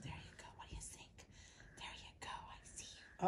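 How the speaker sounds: very soft whispered encouragement; tender whisper. Real, not acted. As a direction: whisper gently to coax the puppy along. Soothing a puppy up close.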